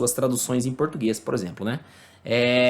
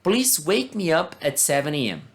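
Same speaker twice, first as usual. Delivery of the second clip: reading example aloud. Shown as a demonstration. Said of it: "Vamos ler outro exemplo".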